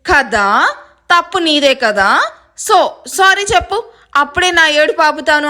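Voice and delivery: cheeky, stretched-out demand; crying dropped, press smugly for an apology; slow, insistent "isn't it?" attitude; suddenly bossy. Acted. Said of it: "ఒక్కసారిగా ఏడుపాపి నడుం మీద చేతులు".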